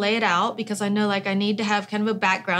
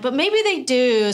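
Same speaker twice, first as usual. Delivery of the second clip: slower, louder, a bit higher second thought; answering her own doubt with hope; hopeful inner voice; 4 semitones higher, 4 dB louder, slower than usual. Retold or imitated. Writer answering her own doubt, slow hopeful reply. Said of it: "And then I'm like".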